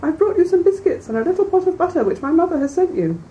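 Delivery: high, put-on little-girl voice from the wolf; the wolf keeps up the sweet high pretense; wolf pretending to be the girl at the door; disguised wolf voice. A narrator's reading. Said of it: "disguising his voice".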